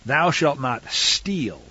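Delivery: slow, deliberate scripture quotation; unhurried, weighty reading; measured recitation. Real, not acted. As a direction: recite it as a commandment, drawing out each word. Recites the commandment's English rendering.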